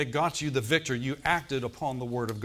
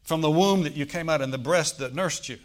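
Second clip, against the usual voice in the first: loud blessing called over the room; calling out from the crowd; 2 semitones higher, 5 dB louder than usual. Retold or imitated. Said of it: "the woman in the crowd called out".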